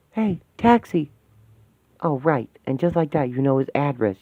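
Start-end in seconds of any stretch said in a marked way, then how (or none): 0.1-1.1 high, slow call to a cab; hailing a taxi. Acted. Calling out for a cab.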